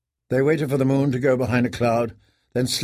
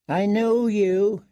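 whispered; 8 semitones higher, slower than usual. A narrator's reading. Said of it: "he whispered through cracked lips".

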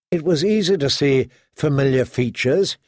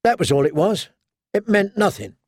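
higher-pitched, insistent denial; Theon's higher, dismissive protest; muttered dismissal; 6 semitones higher than usual. A narrator's reading. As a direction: brush it off, voice lifting at the end. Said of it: "he muttered".

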